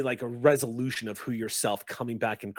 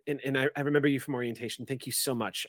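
flustered student; faster than usual. Acted. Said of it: "glances about and says".

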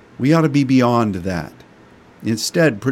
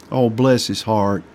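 Southern sweet pity; 2 semitones lower than usual. Shown as a demonstration. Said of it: "That just means that guy sure is screwed up".

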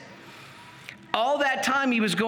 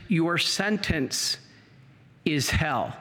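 slow, measured verdict, dropping low at the end; solemn pronouncement; 4 semitones lower, slower than usual. Retold or imitated. Jesus passing sentence on the priest, solemn and slow. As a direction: pronounce judgment gravely, with a pause.

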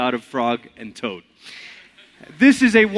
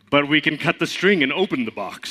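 Toad voice. Acted. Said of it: "Toad has to have a lower voice".

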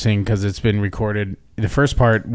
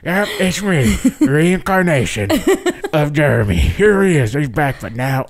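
yearbook voice. Pretend. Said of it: "I could only do so many voices".

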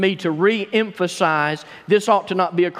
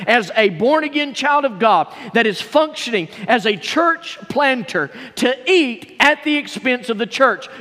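higher-pitched, pressing rhetorical questions; insistent arguing; 5 semitones higher than usual. Acted. Church planter asking for his right to support, insistent arguing. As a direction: argue your case, piling up the phrases.

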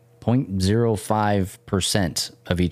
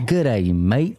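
mock Australian. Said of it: "what P J has been saying".

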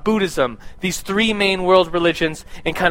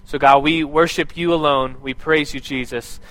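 spoken prayer; 2 semitones lower than usual. Acted. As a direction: pray earnestly for the room. Leads the congregation in prayer.

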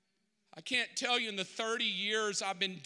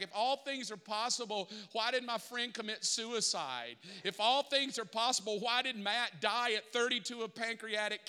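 building challenge to God; 2 semitones higher than usual. Acted. Pastor's rising challenge to God.

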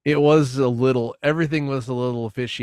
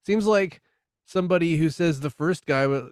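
excited; 9 semitones higher, 3 dB louder than usual. Real, not acted. Excited rhetorical musing.

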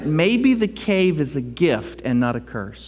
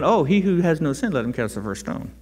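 voicing God; 4 semitones lower, 3 dB quieter than usual. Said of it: "God is going".

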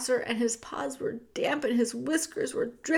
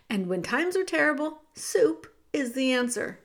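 Cook's rough voice. Acted. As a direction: push him to run, now. Cook talks about soup.

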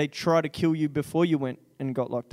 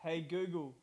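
repeating to voice assistant; 17 dB quieter than usual. Real, not acted. Asking phone assistant about movie.

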